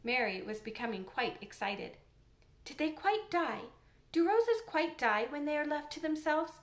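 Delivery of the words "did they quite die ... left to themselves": put-on eager young girl, a touch higher; lightly voiced curious girl; girl's voice. Mary asks the old gardener.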